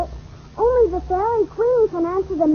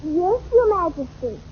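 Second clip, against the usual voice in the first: sarcastic. Acted. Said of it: "Never mind the sarcasm".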